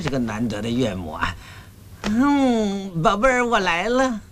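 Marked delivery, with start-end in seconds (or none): 2.0-4.2 higher-pitched lovey-dovey call; amorous cooing. Acted. Groom calling to his bride on the wedding night, cooing. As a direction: coo it to your sweetheart.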